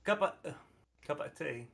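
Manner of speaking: put-on halting try at a British accent; tentative mock British; attempted British accent. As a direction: test out a British accent, unsure. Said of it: "I'm trying to say British phrases".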